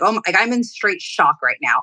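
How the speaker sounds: ordinary talk, nothing marked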